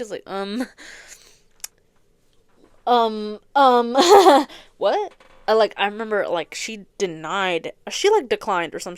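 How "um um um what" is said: laughing disbelief. Retold or imitated. Flustered reply to a date offer.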